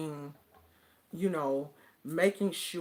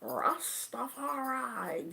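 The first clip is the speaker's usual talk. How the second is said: drawn-out imitated Jamaican accent; 8 semitones higher, slower than usual. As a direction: lightly imitate a Jamaican friend, stretching the word out. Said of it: "The accent just made it sound".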